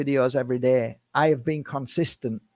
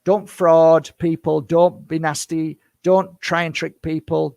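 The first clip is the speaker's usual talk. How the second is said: slow, louder, every word pressed home; a stern slow plea to viewers not to cheat people; firm loud warning; 5 dB louder than usual. Real, not acted. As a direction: lay down the law to the viewers, slowly and loudly.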